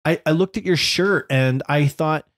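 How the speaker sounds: daughter's excuse. Retold or imitated. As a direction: plead like a kid backpedaling.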